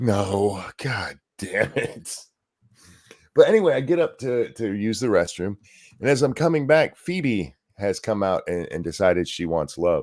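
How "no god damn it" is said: put-on, very slow, drawn-out, beaten-down defeated delivery. Listener acts out a judge answering a question heard too many times: imitating a defeated judge. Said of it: "you could just hear the defeat in the judge's voice".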